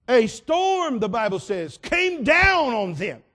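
loud, high, slow preacher's roar; preaching at full force. Acted. Preacher booms the storm to his congregation.

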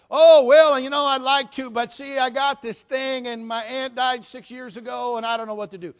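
high, loud whining dodge; mock whiny excuse. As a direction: sigh out a lame excuse. Mocking churchgoer excuse.

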